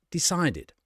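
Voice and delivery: "decided" with a clearly sounded id at the end; extra -id syllable. Shown as a demonstration. Teacher showing how decide becomes decided, extra syllable sounded. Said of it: "we add an extra syllable".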